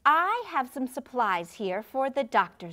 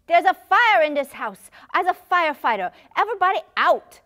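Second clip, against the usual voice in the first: put-on loud, high child calling out; pretend firefighter shout; 6 semitones higher, 9 dB louder, faster than usual. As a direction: order everyone out like a hero firefighter. Child playing firefighter calls out.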